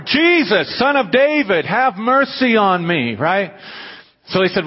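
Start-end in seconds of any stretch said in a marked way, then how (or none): 0.0-3.1 raised, pleading cry for mercy; a blind man pleading, pitched up but only slightly louder. Retold or imitated. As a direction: call out higher and slower, begging Jesus. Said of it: "He cries out even more".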